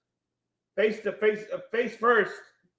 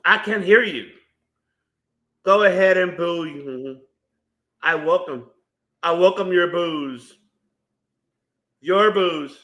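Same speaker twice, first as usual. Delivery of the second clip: wrestler heel promo; 4 semitones lower, slower than usual. Retold or imitated. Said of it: "Ricochet's gonna talk on the mic".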